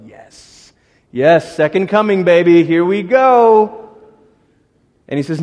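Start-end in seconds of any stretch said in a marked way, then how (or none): 0.1-3.8 excited cheer. Acted. We cheer the second coming.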